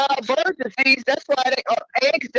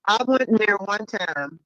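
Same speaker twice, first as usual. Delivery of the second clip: underwater; 6 dB louder than usual. Real, not acted. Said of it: "You sound like you underwater".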